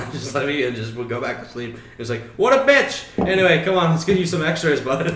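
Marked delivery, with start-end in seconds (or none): 2.4-5.1 much higher, louder, chummy voice; high mock receptionist. Receptionist siding with the injured guy, high and chummy. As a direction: play the friendly nurse, pitched way up.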